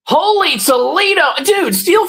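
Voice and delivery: high, ringing burst of amazement; excited exclamation. Real, not acted. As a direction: throw it out like a real wow. Reacting to a viewer comment.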